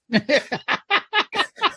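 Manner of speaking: high-pitched delighted laugh; high giggle. Retold or imitated. Laughing at the strip club.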